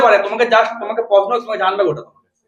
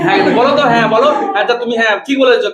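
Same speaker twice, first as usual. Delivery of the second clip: teacher calling on pupil; 2 semitones higher than usual. Shown as a demonstration. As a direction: prompt the girl to answer, lightly. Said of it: "মুখে ওই বলছে আমি".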